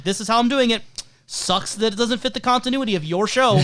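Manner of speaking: mock-defiant actor standing firm; confrontational. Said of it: "being a little confrontational".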